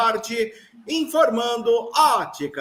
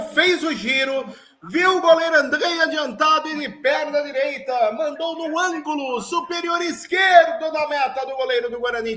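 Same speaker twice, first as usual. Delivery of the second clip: ordinary talk, nothing marked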